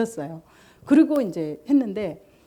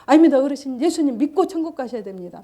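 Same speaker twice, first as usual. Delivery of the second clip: louder and higher, steady refusal; firm insistence; 4 semitones higher, 5 dB louder than usual. Retold or imitated. The good man pressing the dying father, louder and higher. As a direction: keep pressing, never yield. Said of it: "옆에 있는 분도 계속".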